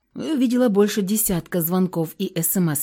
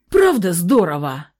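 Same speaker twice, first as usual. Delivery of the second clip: plain reading voice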